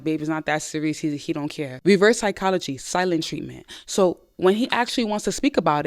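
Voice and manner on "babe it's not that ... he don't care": dismissive. Retold or imitated. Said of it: "he's always the nonchalant one".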